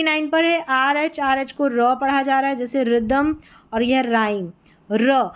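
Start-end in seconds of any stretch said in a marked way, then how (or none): 4.9-5.3 र as a bare r sound, H silent. Shown as a demonstration. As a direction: say र for RH without any h. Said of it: "एच यहाँ पर silent है".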